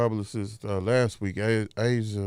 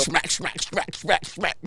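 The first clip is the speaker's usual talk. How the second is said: mock lip smacking; 5 semitones higher, 3 dB quieter, slower than usual. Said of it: "you're smacking and carrying on".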